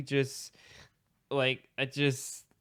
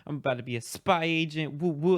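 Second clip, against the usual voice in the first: pumped; 4 semitones higher than usual. Retold or imitated. Student pumped to become a spy agent, excited. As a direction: imitate being mildly hyped. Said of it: "I was all pumped".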